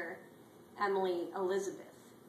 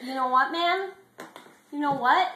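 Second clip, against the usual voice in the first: much higher and louder, pumped up; loud pep talk; 7 semitones higher, 12 dB louder than usual. Acted. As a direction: hype him up at full volume. Clifford calms T-Bone down.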